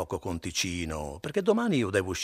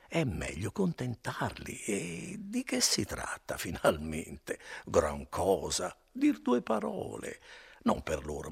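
wheedling innkeeper, unhurried; gentle, coaxing. Acted. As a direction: coax him like a friend. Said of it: "con una voce e con un fare tutto gentile".

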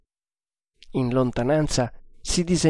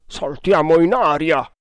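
mildly raised grumble; grumbling; 3 semitones higher, 3 dB louder than usual. A narrator's reading. Engineer objecting to the captain's order, grumbling. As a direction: grumble a protest. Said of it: "brontolò Udaipur".

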